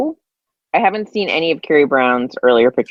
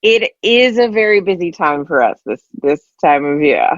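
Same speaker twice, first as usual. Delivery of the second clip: slipping into a vague, bad British accent; busy chat in an uncertain British-ish accent; unintended, half-hearted British accent; accidental British-ish accent. Real, not acted. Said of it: "I don't know why I have this accent now".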